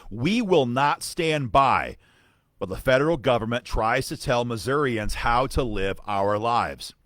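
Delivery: emphatic, declamatory reading of an official letter; letter read aloud. Acted. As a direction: read it out firmly like a formal rebuttal.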